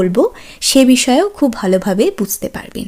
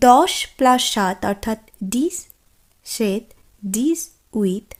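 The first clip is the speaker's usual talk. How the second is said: slowed explanation; 2 semitones lower, 3 dB quieter, slower than usual. Shown as a demonstration. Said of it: "এভাবে উচ্চারণ করছি".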